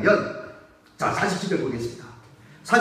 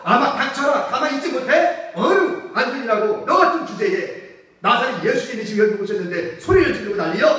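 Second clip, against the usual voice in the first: scolding crowd; 2 semitones higher than usual. Acted. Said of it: "이런 얘기겠죠".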